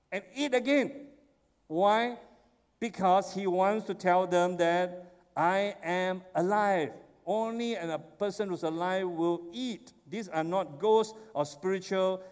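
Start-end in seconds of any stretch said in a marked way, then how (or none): 5.4-6.9 slow, solemn declaration. Acted. Jesus declaring he lives.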